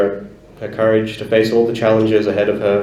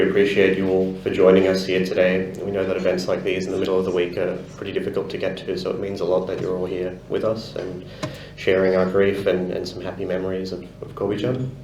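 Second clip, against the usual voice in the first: faltering tender eulogy; 4 dB quieter than usual. Real, not acted.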